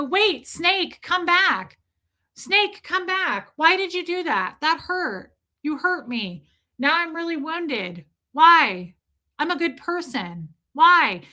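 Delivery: high, hammed-up plea after the attacker; mock wounded pleading. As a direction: call out high, playing the hurt victim. Acts pleading with the snake.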